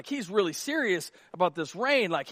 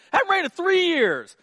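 out of breath; 12 semitones higher, 7 dB louder than usual. Acted. Frank panting climbing the mountain.

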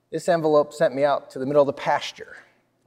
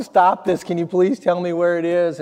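crying out; 3 semitones higher, 4 dB louder than usual. Retold or imitated. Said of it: "I cry out for my mom".

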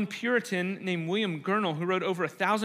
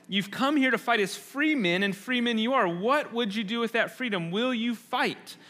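rousing battle speech; 3 semitones higher than usual. Retold or imitated. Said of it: "he says".

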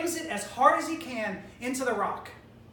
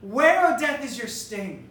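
taunting death with a loud WHERE; mocking challenge to death; 5 dB louder than usual. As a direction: pick a fight with death. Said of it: "Paul is taunting death and says".

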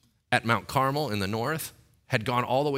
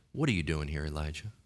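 voice of God; 6 semitones lower, 5 dB quieter than usual. Acted. God asks Elijah, voiced.

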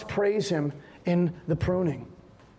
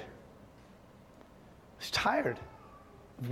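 whispered tired; 2 semitones lower, 12 dB quieter, much slower than usual. Retold or imitated. Preacher confessing exhaustion.

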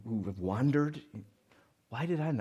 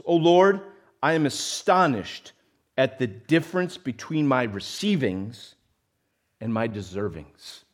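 solemn prayer reading; 4 dB louder than usual. Acted. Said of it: "I love this".

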